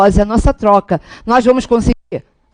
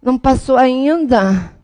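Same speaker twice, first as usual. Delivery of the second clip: slow, softer nagging-aunt impression; tia intrometida; 4 dB quieter, much slower than usual. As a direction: imitate a disapproving aunt, dragging the words. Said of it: "aquela tia que diz assim". (imitação de tia desdenhosa, arrastando as palavras)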